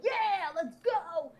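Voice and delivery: slow, drawn-out mock wrestler pump-up; wrestler hype. The guy psyching up, a light wrestler impression. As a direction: stretch it out like a half-hearted ring entrance. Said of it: "like Hulk Hogan or".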